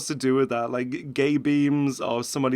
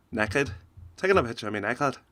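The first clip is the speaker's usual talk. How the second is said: put-on a light, half-hearted Scottish accent, a bit quicker; mock Scottish accent; 3 semitones lower than usual. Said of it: "I'm doing Scottish now".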